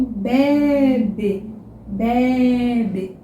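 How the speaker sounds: bebe pronounced carefully, rounded. Shown as a demonstration. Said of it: "se você quiser pronunciar muito redondinho".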